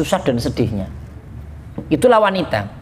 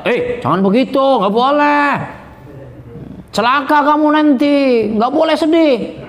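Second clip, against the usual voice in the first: harsh scolding; 8 semitones higher than usual. Acted. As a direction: snap at them to stop grieving. Friend scolds mourner tactlessly. (teman yang menegur dengan kasar, suara tinggi dan keras)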